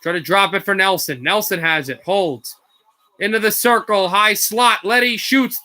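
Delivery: brisk hockey play-by-play call; steady broadcast play-by-play; live play-by-play. Acted. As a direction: call the puck as it moves.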